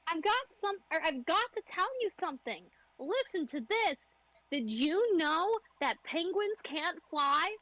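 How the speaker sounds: flat, high, slow monotone character; deadpan every word slowly. Acted. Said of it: "the monotone voice from earlier".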